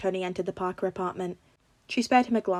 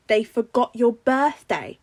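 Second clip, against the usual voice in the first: gasped; 3 semitones higher, 7 dB louder, slower than usual. A narrator's reading. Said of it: "Ned gasped".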